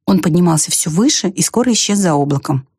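usual speaking voice

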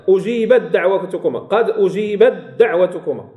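أجيبت دعوتكما with the taa read as a complete d; full merging demonstration. Shown as a demonstration. Teacher recites the example, taa of أجيبت read as full dal. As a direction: run أجيبت دعوتكما together on a doubled d. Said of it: "تقرأ دالا تامة".

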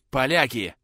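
wheezing warning, breath gone; hoarse and out of breath. Acted. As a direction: rasp it out, gasping. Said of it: "прохрипел, задыхаясь".

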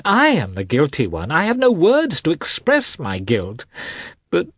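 high, tearful begging; sobbing plea. A narrator's reading. Husband begs wife to think of the children, sobbing. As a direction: plead through sobs, pitch leaping up. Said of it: "now actually sobbing".

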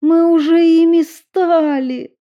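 high, loud tearful outburst; crying out through tears; loud weeping plea. A narrator's reading. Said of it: "по её щекам градом покатились слёзы".

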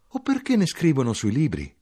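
high-pitched exclaimed question. A narrator's reading. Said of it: "mia madre esclamò".

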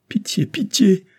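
high, whispered desperate plea; desperate cry. A narrator's reading. Isabel throwing herself before the count, desperate whispered plea. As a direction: beg in despair, breath breaking. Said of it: "cria-t-elle dans son désespoir".

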